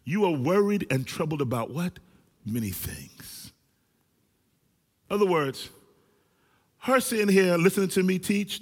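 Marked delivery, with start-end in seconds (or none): 0.0-3.5 drawn-out rhetorical. Retold or imitated. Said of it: "I'm gonna try to run with it".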